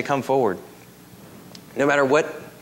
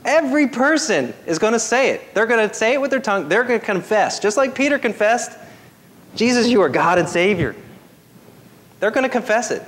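higher-pitched pulpit declaration; emphatic preaching; 6 semitones higher than usual. Real, not acted. Preacher telling church everyone will confess, emphatic preaching. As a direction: drive each phrase home to the congregation.

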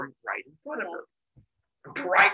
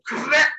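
squeezing pop; 10 semitones higher, 5 dB louder than usual. Retold or imitated.

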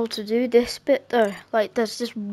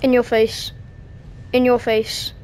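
gloating. Real, not acted. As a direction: rub it in after winning. Gloating after finally winning.

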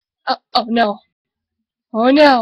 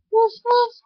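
playful puppy bark; 9 semitones higher than usual. Acted. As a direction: yip like a small puppy. Dog's reply.

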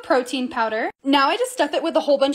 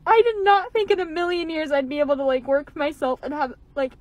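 overcome, fighting back tears; choked up. Real, not acted. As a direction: talk through welling emotion. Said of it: "Hold on, let me compose myself".

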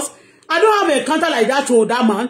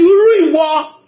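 mock taunt; 4 semitones higher, 5 dB louder than usual. Quoting insults shouted online.

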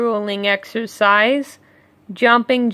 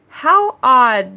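mild surprise; 3 dB louder than usual. Acted. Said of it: "they said".

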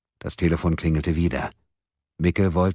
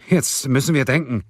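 higher, urgent command; decisive; 8 semitones higher, 4 dB louder than usual. A narrator's reading. Man reining in panicked friends, decisive. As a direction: take charge under pressure. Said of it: "entschied Erik".

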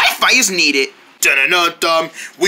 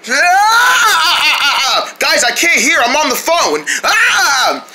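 chaotic yelling; 6 semitones higher, slower than usual. Acted. Noisy chaos during call.

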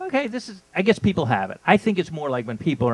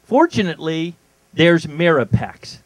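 ad read; 4 dB louder than usual. Shown as a demonstration. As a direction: pitch it like a commercial. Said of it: "I'm gonna read it to you now".

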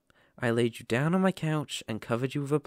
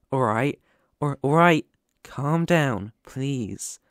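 raised calming call; 6 dB louder, slower than usual. Acted. Listener panics, he calls out.

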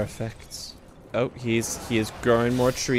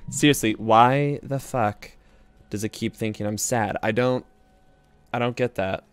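frustrated; 6 dB louder than usual. Real, not acted. Frustrated at voice software.

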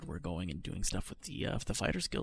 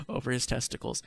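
laughing; 3 semitones higher than usual. Real, not acted. Reader laughs at the story.

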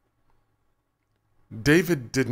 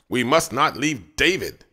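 louder toy bear voice; complaining teddy bear; 5 semitones higher, 6 dB louder than usual. A narrator's reading. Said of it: "Teddy complained".

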